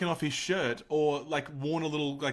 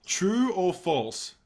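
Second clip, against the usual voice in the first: slow drawn-out announcer read; game show announcer; much slower than usual. Acted. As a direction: announce like a quiz host. Host drawn-out quiz announcement.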